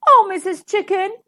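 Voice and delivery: put-on sweetness; sweet wheedling. A narrator's reading. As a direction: sweet-talk her like a wolf on best behaviour. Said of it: "said Big Bad Wolf sweetly".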